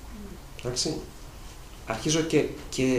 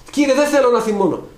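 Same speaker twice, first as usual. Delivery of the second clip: pleading prayer; 11 semitones higher, 8 dB louder than usual. Acted. Voiced prayer of a believer.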